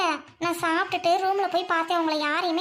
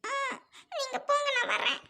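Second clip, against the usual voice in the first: crying; 5 semitones higher than usual. Acted. Still crying after being caught.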